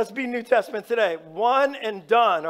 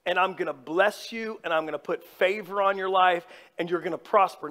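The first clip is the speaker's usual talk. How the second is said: solemn God voice; 5 semitones lower, 3 dB quieter, faster than usual. Retold or imitated. God speaking to Jacob.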